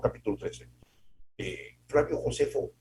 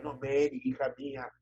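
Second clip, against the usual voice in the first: tender mother; 6 dB quieter than usual. Retold or imitated. A proud mother softly praising her daughter Mary. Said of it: "nos decían".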